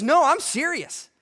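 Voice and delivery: slow, loud, high insistence; firm and serious. Retold or imitated. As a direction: plant each word slowly, no joking. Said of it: "more and more firm".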